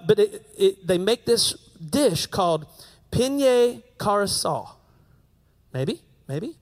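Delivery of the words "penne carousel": slow careful "penne carousel", pen-yay; careful Italian try. Shown as a demonstration. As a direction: sound out "penne carousel" slowly in mock Italian. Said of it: "I'm gonna try to say it".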